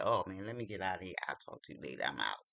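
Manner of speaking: low, hurried voice of a guy bailing out; mock man's voice. Imitating the date as he rushes out, low mock voice. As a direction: voice the date leaving fast. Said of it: "He was like".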